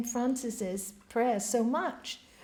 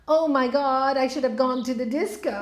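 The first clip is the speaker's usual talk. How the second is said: laughing regret; 3 dB louder than usual. Acted. Monk regrets missing the disco.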